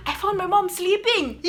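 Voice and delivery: laughing through the repeated line. Real, not acted. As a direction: crack up as you say it. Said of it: "repeats quote laughing".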